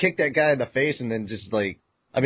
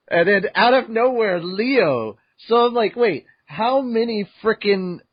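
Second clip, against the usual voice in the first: surprised; 9 semitones higher than usual. Real, not acted. To co-host about Leo showing up, high surprise. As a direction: react as if caught off guard.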